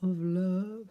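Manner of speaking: teasing breathy secret whisper; mock whisper. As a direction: whisper it like a love spell. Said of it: "And I was like".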